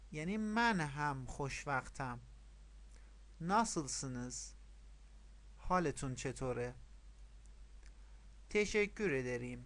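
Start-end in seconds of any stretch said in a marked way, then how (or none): 3.4-4.5 slow teacher's model phrase; repeat-after-me model. Shown as a demonstration. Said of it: "پشت سر من تکرار کنید". 8.5-9.6 slow teacher's model phrase; repeat-after-me model. Shown as a demonstration. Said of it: "پشت سر من تکرار کنید".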